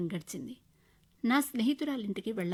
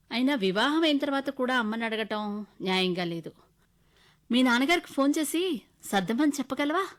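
husband asking; 4 semitones higher, 8 dB louder than usual. Acted. Husband asks wife for money.

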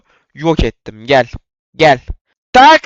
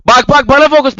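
taunting yell; 12 semitones higher, 8 dB louder than usual. Real, not acted. Taunting opponent who chases him.

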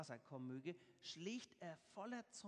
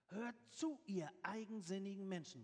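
calling out; 3 semitones higher, 4 dB louder than usual. Acted. Moses addresses the stubborn people at the rock, calling out. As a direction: call them sternly to attention. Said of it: "rief Mose".

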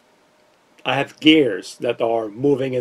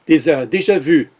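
déjà vu in a put-on French accent. Shown as a demonstration. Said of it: "with my French accent".

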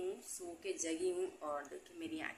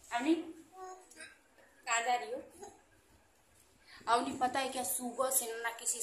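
higher, drawn-out call; 6 semitones higher, 3 dB louder than usual. Real, not acted. Mother asks her child where she is going, calling out. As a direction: call out slowly in a raised pitch.

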